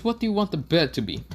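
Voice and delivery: quick, high-pitched question; Konohamaru. Acted. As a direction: ask briskly in a high character voice. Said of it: "Konohamaru says".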